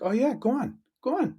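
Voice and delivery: high, lilting Cork-style go on. Retold or imitated. Imitating a friend from Cork, encouraging and high. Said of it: "this real Cork saying".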